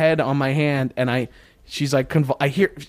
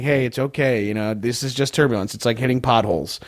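lower, calming voice; reassuring; 4 semitones lower than usual. Retold or imitated. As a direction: gently talk down a nervous flyer. Retelling himself calming a scared passenger.

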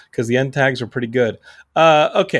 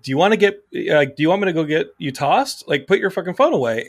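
retold angry yell; 4 semitones higher than usual. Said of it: "You were yelling".

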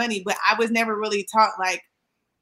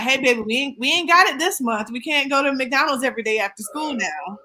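lightly voiced mom explaining; a hint of a mother breaking it to her child; gently put-on mama voice; mom's voice; 3 semitones higher than usual. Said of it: "I don't know why that's your mom's voice".

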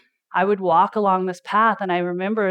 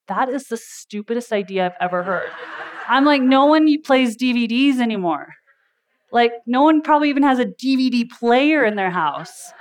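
mock scoff; 5 semitones higher, 4 dB louder than usual. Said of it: "And I was like".

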